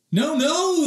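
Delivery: loud, high alarmed shout. Acted. The family shouts to stop Oliver, loud and high. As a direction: yell to stop him in time. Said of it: "the three shouted".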